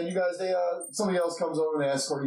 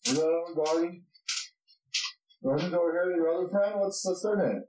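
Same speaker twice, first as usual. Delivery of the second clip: lightly voiced guard, pitched higher; a hint of a curious gatekeeper; inquisitive dwarf guard; 4 semitones higher than usual. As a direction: ask after newcomers in a lifted voice. Guard asks after another friend.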